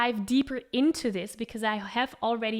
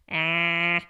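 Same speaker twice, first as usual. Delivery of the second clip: breathy; 5 semitones lower than usual. Shown as a demonstration.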